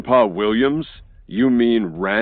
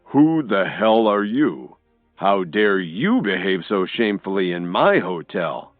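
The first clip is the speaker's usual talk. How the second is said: loud, slow, stern challenge; loud, slow indignant hotel owner; irritated Mitchell; 3 dB louder, slower than usual. A narrator's reading. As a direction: demand slowly who he is. Mitchell angry at intruder.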